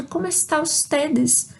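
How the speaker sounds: ¿Cómo está ustedes? asked slowly and clearly; slow model question. Shown as a demonstration. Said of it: "se alguém me pergunta". (pergunta lenta e clara)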